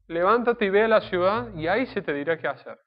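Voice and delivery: emphatic command. Shown as a demonstration. Preacher crying out God's order to Saulo, loud and emphatic. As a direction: proclaim it as a firm order. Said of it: "Fue una orden concreta".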